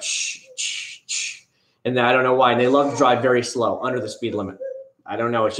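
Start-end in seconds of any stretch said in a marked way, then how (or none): 0.0-1.4 whispered shush; quick unvoiced shh sounds. Real, not acted. Shushing his child off-mic.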